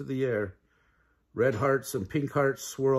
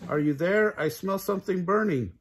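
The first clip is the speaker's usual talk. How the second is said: worried call; 6 semitones higher than usual. Acted. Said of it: "he called".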